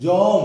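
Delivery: জম said loud with the ম silent at the end; sounding out জম. Shown as a demonstration. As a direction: stress জম with an audible অ after জ. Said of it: "এখানে অ আসছে বলে".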